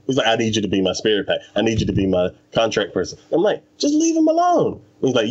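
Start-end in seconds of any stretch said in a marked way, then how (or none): 0.3-3.2 pushy exorcist. Retold or imitated. Exorcist voiced in retelling. 3.8-4.8 much higher, mock exasperated plea. Speaker scolds exorcist in retelling.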